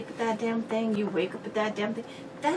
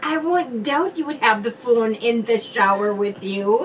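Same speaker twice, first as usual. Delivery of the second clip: teasing jab; 10 dB louder than usual. Real, not acted. Bickering about the phone.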